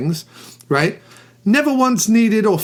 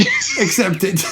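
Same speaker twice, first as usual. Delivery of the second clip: near Walken impression; 3 semitones higher, slower than usual. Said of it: "almost became a Christopher Walken impression".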